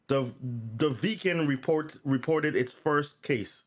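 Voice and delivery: false starts on "The" and "report"; halting misread news line; stumbled reading. Real, not acted. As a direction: trip over "report" and restart the word. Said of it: "I'll say that again".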